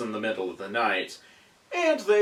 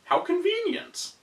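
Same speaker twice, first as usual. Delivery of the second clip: sarcastic. Acted. Sarcastic aside on plot convenience.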